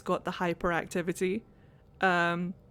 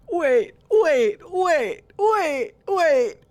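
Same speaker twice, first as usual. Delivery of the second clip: loud, higher, urgent repeated waits; excited; 7 semitones higher, 6 dB louder, much slower than usual. Real, not acted. Gamer excitedly stopping to hear the accent again. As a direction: stop everything in excitement.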